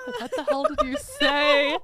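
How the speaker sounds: high, incredulous demand with drawn-out words; mock astonishment. Tom Hanks questioning brother's Swedish, hammed-up astonishment.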